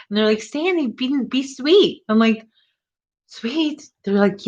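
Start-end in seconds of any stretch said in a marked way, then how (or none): 0.4-2.0 imitated coworker urging. Coworkers quoted telling her. 3.3-3.9 incredulous echo. Retold or imitated. Incredulous reply to being told.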